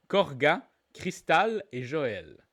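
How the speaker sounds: English surnames given French vowels; deliberate French accent, names spaced out. Shown as a demonstration. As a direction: read the names as if they were French. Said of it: "Je l'ai dit avec l'accent français".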